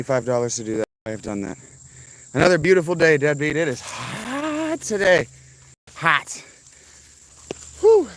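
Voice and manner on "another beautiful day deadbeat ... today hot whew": a bit of hammed Aussie cheer; attempted Australian. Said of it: "I was trying to do an Australian".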